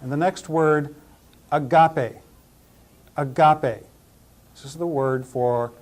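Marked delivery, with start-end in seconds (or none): 1.5-3.8 "agape" said ah-GAH-pay, middle syllable stressed; pronunciation demo. Shown as a demonstration. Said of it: "pronounce them all again".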